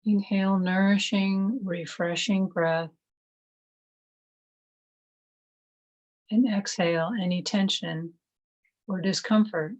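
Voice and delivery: calm, measured meditation voice with long pauses; guided meditation. Acted. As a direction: gently guide them into stillness, one phrase at a time.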